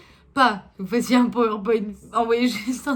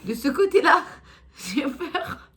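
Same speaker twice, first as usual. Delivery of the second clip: exasperated; 4 semitones higher, 5 dB louder than usual. Real, not acted. Exasperated at the tarot reading.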